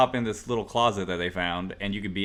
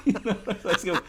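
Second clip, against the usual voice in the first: put-on high, loud grumpy old man; angry old man voice; 7 semitones higher, 3 dB louder than usual. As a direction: bark it like a cranky old man, pitched up. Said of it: "my angry old man voice sounds like my mom".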